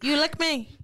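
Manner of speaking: hammed-up Asian-accented English; mock Asian accent. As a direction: put on a stereotyped Asian accent. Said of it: "We got the Asian".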